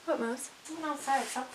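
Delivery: soft and tense, listening; hushed worried. Real, not acted. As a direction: ask the dog quietly. Talking to dog, scared.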